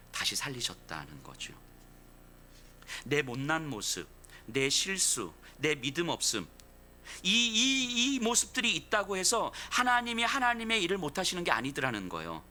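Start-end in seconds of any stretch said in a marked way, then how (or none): none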